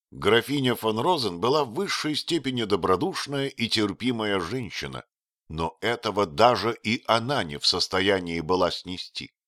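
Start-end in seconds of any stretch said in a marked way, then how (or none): none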